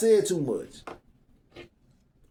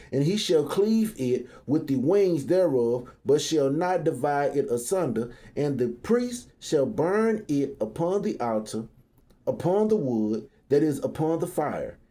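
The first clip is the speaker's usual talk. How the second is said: scripture reading; 3 semitones lower than usual. Acted.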